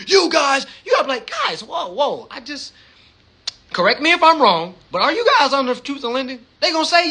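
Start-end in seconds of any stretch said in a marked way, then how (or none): 0.1-0.7 bentakan keras bernada tinggi; teriakan agresif. Retold or imitated. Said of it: "You can't call them aggressive like". 1.3-6.4 bertanya polos dan pelan, lebih lembut; penuh rasa ingin tahu. Retold or imitated. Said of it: "call them on some curiosity shit".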